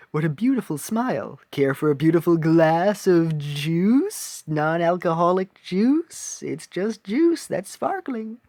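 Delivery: slow, sweet princess voice; sweet cartoon princess, slowly; Princess Peach voice. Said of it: "my Princess Peach voice".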